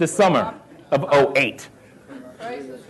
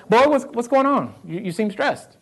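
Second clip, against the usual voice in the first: mom's voice; 6 semitones higher than usual. Retold or imitated. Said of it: "my mom will say".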